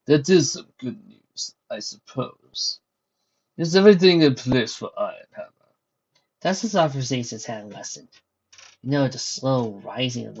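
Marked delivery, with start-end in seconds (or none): 0.1-5.7 lightened tone. Acted. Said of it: "Vladimir's tone lightened".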